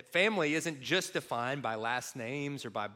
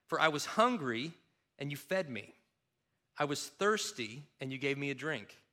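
reading Jesus' words on the judgment to the congregation; scripture reading. Acted. Reading Matthew 25 aloud.

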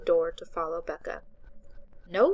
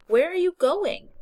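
calling out; 11 semitones higher, 8 dB louder than usual. A narrator's reading. Becca calling after Maya.

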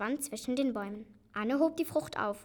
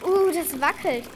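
higher, loud, nervous yelp; alarmed exclamation; 5 semitones higher, 10 dB louder than usual. Acted. Child climbing into a wobbly canoe, alarmed. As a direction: exclaim at losing balance.

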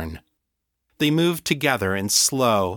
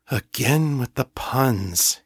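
slow, a touch of weary mutter; 2 semitones higher than usual. Acted. John groaning at Morgan's puns, slow weary mutter. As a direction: grumble it under your breath. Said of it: "he muttered".

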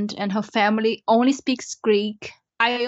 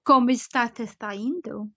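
Portuguese with a Spanish accent; lightly Spanish-accented Portuguese; faster than usual. Shown as a demonstration. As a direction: speak Portuguese as if it were Spanish. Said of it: "Portuguese, but with a Spanish accent".

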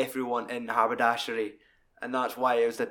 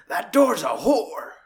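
slow, high, louder lament; mock wail; 8 semitones higher, 5 dB louder, slower than usual. Character cursing the broken door, slow high mock wail. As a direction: wail it like a sob.

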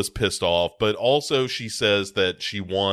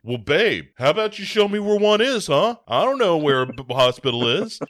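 much higher, loud, fast snippy comeback; snippy boyfriend; 7 semitones higher, 4 dB louder than usual. Retold or imitated. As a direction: snap back defensively at her. Voicing Kemper snapping back.

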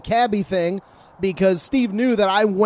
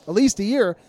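ordinary talk, nothing marked

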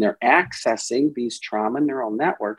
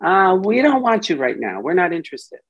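slightly raised, brushing off the part; dismissive; 5 semitones higher, faster than usual. Retold or imitated. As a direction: wave the part away. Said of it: "So it tells the part".

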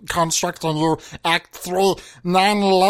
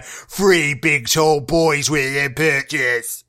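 low, slow announcer growl; deep voice; 6 semitones lower, slower than usual. Acted. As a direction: drop it way down and stretch each word. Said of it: "this one down here".

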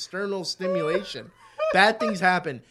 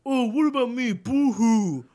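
high, whiny fake crying; mock self-pitying whine; 6 semitones higher than usual. Mocking people who complain, high and whiny. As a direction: whimper like a spoiled victim. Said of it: "It's just like".

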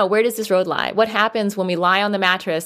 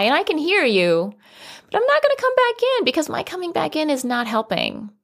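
gentle bedtime script. Shown as a demonstration. A parent explaining to the toddler why she won't come back in, reassuring. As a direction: talk your toddler down kindly. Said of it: "Use our words".

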